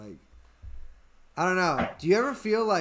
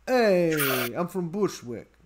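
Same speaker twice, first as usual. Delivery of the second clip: lightly put-on Brooklyn accent; North Brooklyn accent; 2 semitones lower than usual. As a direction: greet like a Bushwick local, Brooklyn-accented. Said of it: "it's North Brooklyn".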